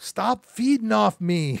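acted-out high, half-screamed outburst. Act out Paul Newman's answer to George Kennedy calling him the man, retelling a scream. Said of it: "Paul Newman just kind of screamed".

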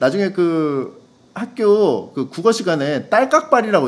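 ordinary talk

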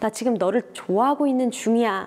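ordinary talk, nothing marked

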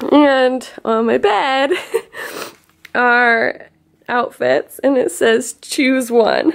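slow, tearful, overwhelmed happy crying. Coming home to flowers, a note and gifts, describing them while crying happy tears. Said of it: "These are happy tears".

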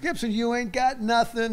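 very high, shrill, hollered screaming. Retelling a teammate screaming at the pitcher from the dugout steps: imitating someone screaming. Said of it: "starts screaming at Gibson".

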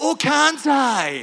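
put-on loud, high-pitched voice with a Scottish accent. Act out God turning around and answering people who say he can't, in a Billy Connolly voice. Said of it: "I wanted to go into Billy Connolly".

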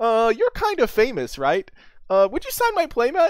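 awkward, slow, high-pitched tone. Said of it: "that was how I said it, too. It was, like, really awkward".

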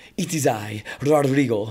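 slow, put-on Spanish accent. Retelling being asked on set to do an accent, Rodrigo's Spanish accent. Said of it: "They asked if I could do a Spanish accent".

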